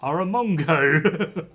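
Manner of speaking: slow, drawn-out mock insult. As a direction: spell out the insult slowly, half joking. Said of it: "not sort of be like".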